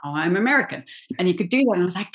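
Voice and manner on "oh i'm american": imitated American accent. Castmate popping back into his role's accent, American accent. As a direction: switch straight into an American accent. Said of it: "like, pop in and out".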